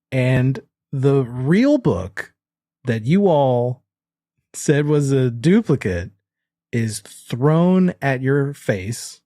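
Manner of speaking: slow, suspenseful narration; drawn-out dramatic reveal, phrase by phrase; game master scene setting. A narrator's reading. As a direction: build the danger with long pauses.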